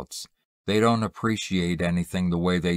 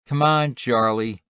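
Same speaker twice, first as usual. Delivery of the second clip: higher-pitched sister's call; 5 semitones higher, 4 dB louder than usual. A narrator's reading. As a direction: call your brother over from the sidewalk. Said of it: "his sister called from the sidewalk".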